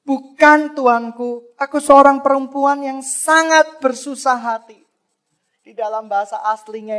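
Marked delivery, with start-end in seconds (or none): 0.0-4.8 Hana answering Eli, mildly sorrowful; humble sorrowful reply. Acted. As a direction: plead gently, heart broken. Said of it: "Hana berkata".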